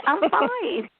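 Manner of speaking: high, forced "I'm fine" hiding tears; mock-chipper I'm fine while secretly crying; fake fine. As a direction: pitch it up to cover the crying. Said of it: "And I'm crying, but not letting".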